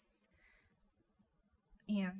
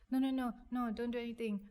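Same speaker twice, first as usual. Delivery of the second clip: retold urgent refusal, higher and louder; urgent protest; 4 semitones higher, 5 dB louder than usual. Daughter stopping her uncle making calls, urgent retold protest. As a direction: cut in with a quick string of no's, mildly urgent.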